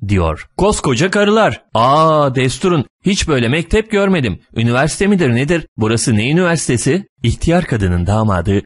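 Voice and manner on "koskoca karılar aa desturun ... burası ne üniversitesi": put-on high-pitched, bewildered old lady; clueless old woman. A narrator's reading. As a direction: question it in naive astonishment. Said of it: "Hala işin farkında olmayan yaşlı kadın".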